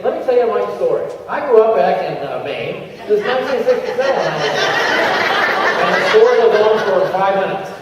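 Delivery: a hint of a long-winded testimonial; rambling storyteller. Shown as a demonstration. Trainer mimics a testimonial that rambles too long, mild. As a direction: drag the story out lightly. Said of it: "you lost them in thirty seconds".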